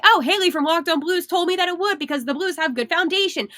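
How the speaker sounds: lightly voiced gloating fan; mock fan quote. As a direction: play a smug fan quoting the host. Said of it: "you can say".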